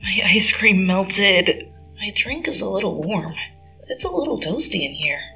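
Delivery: put-on lightly whiny boyfriend; whining. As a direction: drag out the complaint. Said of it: "Peter whined".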